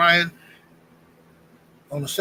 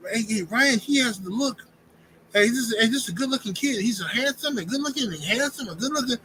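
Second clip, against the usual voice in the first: higher, gushing mock admiration of a fighter; fawning admirer; 5 semitones higher than usual. Mocking Sergio Mora gushing over Ryan, high fawning voice. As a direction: swoon over Ryan like a smitten fan. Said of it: "he's like".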